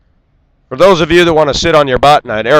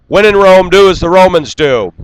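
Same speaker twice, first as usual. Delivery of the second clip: higher and louder, hammering the proverb home; 8 semitones higher, 7 dB louder than usual. Real, not acted. Ranting vlogger lectures Australian expats, loud and high. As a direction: proclaim it like a scolding.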